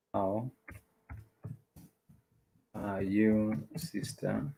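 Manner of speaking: "How ... are you ... sister" with long pauses between; word by word. Shown as a demonstration. Teacher translating a greeting for learners, word by word.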